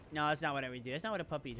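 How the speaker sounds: normal talking voice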